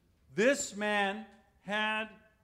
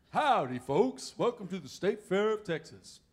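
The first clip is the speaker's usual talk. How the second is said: Big Tex greeting; 5 dB louder than usual. Retold or imitated. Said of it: "it's all East Texas slang".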